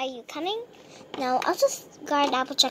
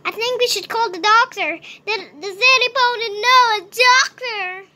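urgent; 4 semitones higher, 5 dB louder than usual. Pretend. Urgent call for the doctor.

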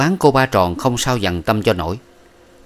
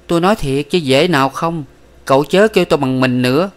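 higher, louder, cold and firm; firm refusal; 6 semitones higher, 4 dB louder than usual. A narrator's reading. Miss Ba forbids him calling her darling, higher and firm. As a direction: shut him down flatly.

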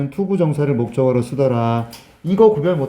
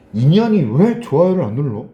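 mock-angry demand, a bit louder; hammed-up peeved complaint; acted indignation; 5 dB louder than usual. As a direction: play someone fuming over a slight. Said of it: "이게 화가 난다니까".

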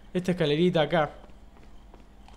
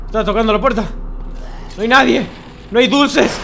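higher, louder pretend homeowner; 7 semitones higher, 8 dB louder than usual. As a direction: answer the door as a grumpy host. Playing a homeowner at the door.

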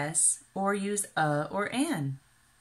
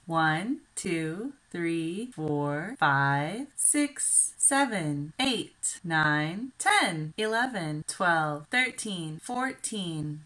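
slow counting demo; slower than usual. Shown as a demonstration. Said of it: "Let's count".

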